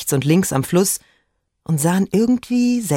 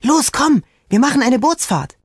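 hoher, freudiger Zuruf; begeistert; 9 semitones higher, 3 dB louder than usual. A narrator's reading. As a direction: die Schwester mitreißen, deutlich höher. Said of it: "schlug seiner Schwester begeistert auf die Schulter". (begeistert auffordern)

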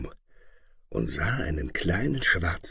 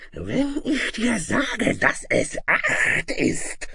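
high, very slow hissing monster; drawn-out, harsh dragon threat; snarling dragon; much slower than usual. A narrator's reading. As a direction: snarl it out word by word. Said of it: "fauchte der Drache".

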